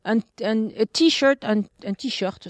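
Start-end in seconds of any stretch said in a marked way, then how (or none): 0.8-1.4 "t-shirt" with a slow English R; English pronunciation. Shown as a demonstration. Comparing loanwords for colleague, "t-shirt" in English pronunciation. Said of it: "French word that comes from English". 1.4-2.5 "t-shirt" with a French R; French pronunciation. Shown as a demonstration. Comparing loanwords for colleague, "t-shirt" in French pronunciation. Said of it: "c'est pareil".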